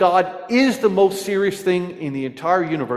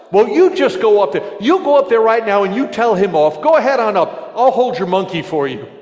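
man on the bus; 5 semitones higher, 4 dB louder than usual. Retold or imitated. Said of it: "the man replies".

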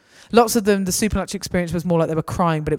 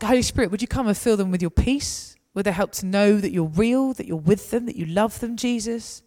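prayer; 3 semitones higher than usual. Retold or imitated. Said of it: "And then I'll ask".

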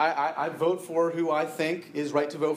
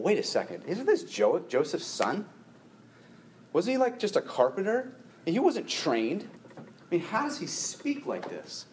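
puzzled, pitch rising and dipping as if working it out; mildly confused crowd; 4 semitones higher than usual. Acted. Townspeople questioning how a carpenter's son can teach, mildly confused. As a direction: act out a baffled listener's doubts. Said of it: "They're just, they're just confused".

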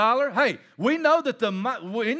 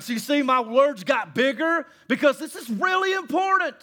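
emphatic Paul; 4 semitones higher than usual. Acted. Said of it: "He's like".

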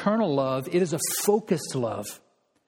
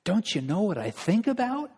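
pleading sinner; 3 semitones higher than usual. Pretend. A believer asking God how he can still love him, rising plea. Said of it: "It'd be like you say".

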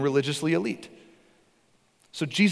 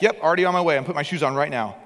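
shouted back; 3 semitones higher, 5 dB louder, faster than usual. Retold or imitated. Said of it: "And they shouted back".

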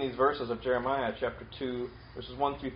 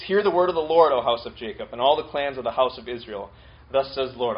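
loud proclamation; 7 dB louder than usual. Acted. God opens his court case.

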